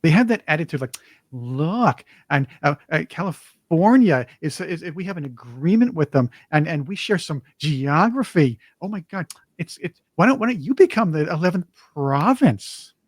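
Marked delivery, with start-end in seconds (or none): 1.3-12.9 as if talking to first graders; mock condescending. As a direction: imitate patronizing explaining to little kids. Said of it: "talk to people like they're in first grade".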